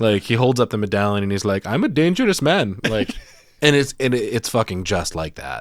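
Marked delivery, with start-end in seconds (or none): 1.7-2.8 put-on character voice with an Indian accent. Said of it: "He basically sounds like Apu from The Simpsons".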